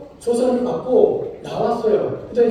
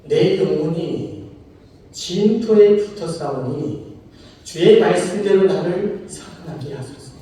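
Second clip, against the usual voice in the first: slow, solemn scripture reading; lament reading; 2 semitones lower, slower than usual. Acted. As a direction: read it out like a groaning prayer. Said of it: "시편 기자의 탄식 소리가 이래요".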